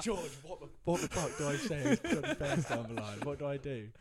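high, loud, frantic re-enactment; retold panic. Player begging roommate for help with caller, loud comic panic. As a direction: cry out in comic panic, voice shooting up. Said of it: "try and, like, calm down".

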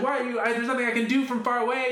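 high, lightly voiced annoyed mom; a hint of an exasperated mother; mom's exasperated reply. Son's mom answering from afar, mild exasperation. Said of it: "she's like".

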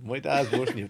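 unvoiced whisper of the repeated line; whispered aside. Real, not acted. Friend whispering a repeated aside to the group.

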